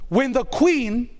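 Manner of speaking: ordinary talk, nothing marked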